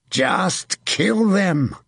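high, very slow war cry; commander's stretched battle yell; shouting. A narrator's reading. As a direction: shout a drawn-out order to the troops. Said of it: "the Sire de Lanforel shouted".

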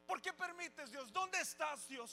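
questioning God. Retold or imitated. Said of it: "cuestionando a Dios".

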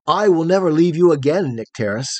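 a touch of an earnest cry; cried out. Acted. Photogen vowing never to leave Nycteris, mildly crying out. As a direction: promise it with a little lift. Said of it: "cried Photogen".

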